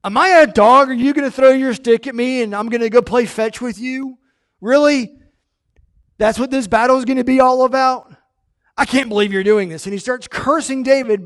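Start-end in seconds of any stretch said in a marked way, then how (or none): 0.0-9.8 louder, higher outraged taunt; indignant Goliath. Acted. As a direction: hurl the insult back in disbelief. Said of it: "he's like".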